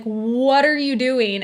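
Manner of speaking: slow, drawn-out indignant demand; exasperated, mildly acted outrage; retold outrage. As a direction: stretch it out in mock anger. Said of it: "I'm pissed to hell".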